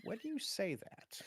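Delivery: slow, soft suspense; hushed game master build-up; ominous narration. Acted. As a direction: draw it out softly before the blow. Game master turns ominous before stabbing.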